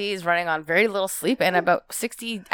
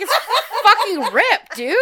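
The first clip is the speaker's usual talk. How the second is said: laughing; 9 semitones higher, 5 dB louder, slower than usual. Retold or imitated. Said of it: "I'm like".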